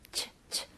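숨소리로 "치, 치" 하고 ch 소리만 떼어 들려주기; "치, 치" 를 작게 내뱉으며 trust의 첫소리 보여주기. Shown as a demonstration. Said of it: "씨에이치 발음". (속삭이듯 "치, 치" 하고 ch 발음 시범)

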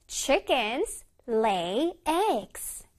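one word at a time with pauses; slow model reading. Shown as a demonstration. Teacher reading an example for children, word by word. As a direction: space out every word clearly. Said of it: "다시 해볼게".

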